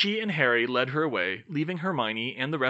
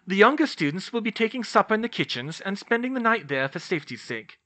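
pitched-up, grave professor voice; stern professor; 7 semitones higher than usual. A narrator's reading. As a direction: announce it as a formidable teacher. Narrator voices McGonagall.

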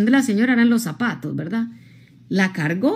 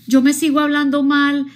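complaining client; 5 semitones higher than usual. Retold or imitated. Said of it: "hay gente que dice".

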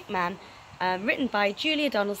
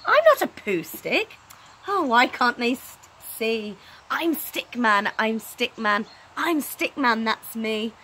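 protesting Stickman. Acted. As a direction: plead to be seen, pitched up.

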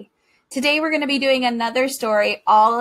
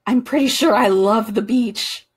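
excited duck; 5 dB louder than usual. A narrator's reading. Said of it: "with excitement".

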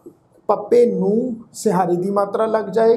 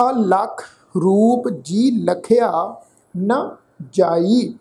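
slow, measured Gurbani reading with drawn-out words; scripture recitation; much slower than usual. Shown as a demonstration. Teacher reading Gurbani aloud to the congregation, slow and measured recitation. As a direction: recite phrase by phrase, lengthening the endings.

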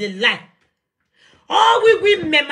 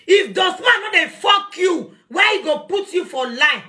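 angry shout; 3 semitones higher than usual. Real, not acted. Heated rant at rival woman.

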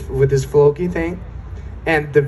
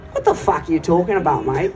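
quick, baffled retort in his voice; incredulous Travis imitation; 2 semitones higher, faster than usual. Actor told to do a Swedish Icelandic accent, incredulous. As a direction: toss it out fast as a baffled actor. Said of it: "and he was like".

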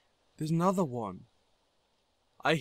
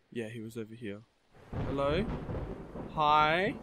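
usual speaking voice

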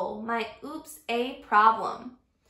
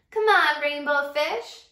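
calling playfully; 3 semitones higher, 5 dB louder than usual. Acted. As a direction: call out to him, cheerful. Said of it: "they would call".

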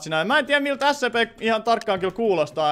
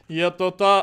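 normal talking voice

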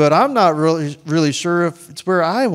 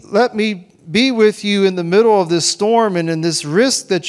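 a lightly voiced comforting Jesus, a little higher; tender reassuring words to a frightened friend; gentle reassurance; 3 semitones higher than usual.

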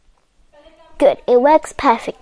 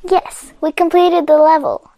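excited; 3 semitones higher than usual. Real, not acted. Level completed.

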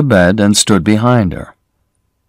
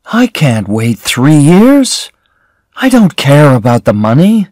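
near tears; 6 semitones higher than usual. A narrator's reading. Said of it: "she was almost crying".

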